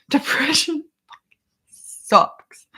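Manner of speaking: high, breathless whisper, slowed down; whispered aside. Real, not acted. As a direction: whisper it like a half-joking confession. Repeats the whisper with a laugh.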